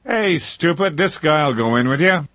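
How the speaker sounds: high shouted insult; yelling. Retold or imitated. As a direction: yell it high and sharp. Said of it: "yelled to an overweight man".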